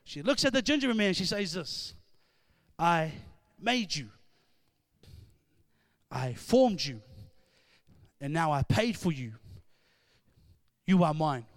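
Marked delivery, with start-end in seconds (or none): 2.8-11.5 tender. Retold or imitated. Girl holding her gingerbread man, tender and lower. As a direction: say it gently, like a promise.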